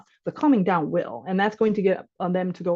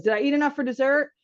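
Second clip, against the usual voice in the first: put-on four-year-old asking; 6 semitones higher than usual. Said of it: "my four-year-old goes".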